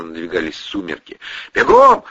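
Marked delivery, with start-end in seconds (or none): 1.5-2.0 loud, breathless voiceless shout; hoarse yell. Acted. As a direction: rasp out the order. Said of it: "орал Протасов".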